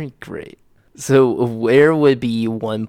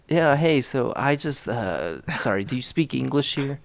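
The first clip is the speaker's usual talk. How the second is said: American tourist; 3 semitones higher, 3 dB quieter than usual. Acted. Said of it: "I'll be the American tourist".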